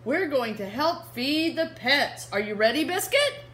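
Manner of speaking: put-on bright little-girl character read to kids. Reading Biscuit to children, the little girl cheerfully calls her puppy. Reading picture book aloud.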